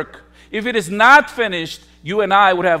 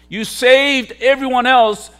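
louder mocking taunt; 6 semitones higher, 4 dB louder than usual. Preacher voicing the crowd jeering at Jesus, raised mocking shout. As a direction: jeer pushed higher and louder.

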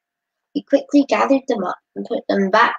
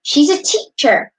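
proudly; 6 semitones higher, 5 dB louder, slower than usual. A narrator's reading. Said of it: "Rachid said proudly".

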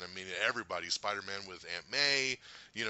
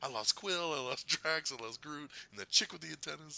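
Rocket breaking; 5 semitones higher than usual. Retold or imitated. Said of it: "the way he was breaking".

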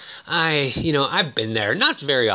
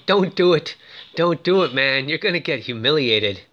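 warning; 2 semitones higher than usual. Retold or imitated. Mother warns her son he will be humiliated, mildly urgent warning. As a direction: retell an urgent plea to back off. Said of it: "she warns him".

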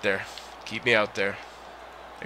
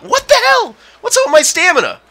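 laughing disbelief; 3 dB louder than usual. Real, not acted. Stamina bar suddenly empty.

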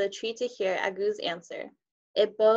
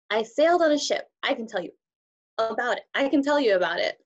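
rising eagerly, louder toward the end; 3 semitones higher, 4 dB louder, faster than usual. Acted. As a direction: push up with growing eagerness. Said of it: "his voice rising".

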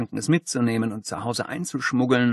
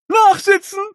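high loud furious yell; strict teacher; 9 dB louder than usual. Acted. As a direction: bellow the punishment at the boy. Principal yells detention at pupil.

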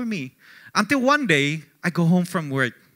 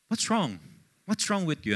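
mom asking; 9 dB quieter than usual. Retold or imitated. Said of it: "my mom said".

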